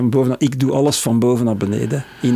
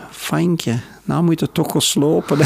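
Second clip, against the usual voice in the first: Flemish dialect mother; 4 semitones higher, slower than usual. Retold or imitated. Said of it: "Want wij praten dialect thuis".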